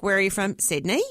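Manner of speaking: Australian upspeak, ending like a question; lightly mimicked Australian with a rising final word; Australian accent. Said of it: "everything sounds like a question".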